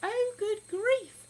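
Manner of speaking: slow drawn-out good grief; exasperated sigh of a phrase. Real, not acted. Reacting to viewer question.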